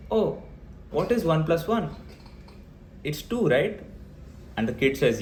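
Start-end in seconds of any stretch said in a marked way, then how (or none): 0.1-3.8 high, fussy doting parent voice, much higher; mocking overprotective parent. Mocking a parent who won't let the child try anything, high and fussing. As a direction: coo like a smothering mum doing everything for the kid. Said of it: "parents are obsessively focusing on risk aversion".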